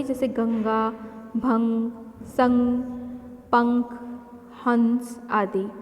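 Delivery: गंगा, भंग, संग, पंख, हंस said slowly with the nasal stressed; nasal anusvara examples. Shown as a demonstration. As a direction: say each word slowly and let the air pass through the nose. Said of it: "हवा नाक से बाहर निकलती है". (अनुस्वार वाले शब्द धीरे-धीरे, नाक से हवा निकालते हुए)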